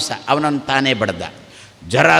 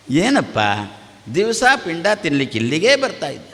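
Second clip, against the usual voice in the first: sing-song scolding; 2 semitones higher, faster than usual. Shown as a demonstration. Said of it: "ಸ್ವಲ್ಪ ರಾಗದಿಂದ ಬೈ". (ಸ್ವಲ್ಪ ರಾಗದಿಂದ ಬೈಗುಳ)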